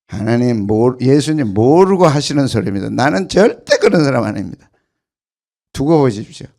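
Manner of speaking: loud, proud declaration of loyalty; bold boast. Acted. Preacher voicing Peter boasting to Jesus, loud and defiant. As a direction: shout it like a proud disciple.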